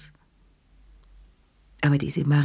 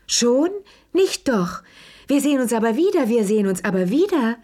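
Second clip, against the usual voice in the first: put-on high, eager, fluttering older hostess; a fussing old lady who won't let guests go; gushing Madame Pelou; 6 semitones higher than usual. A narrator's reading.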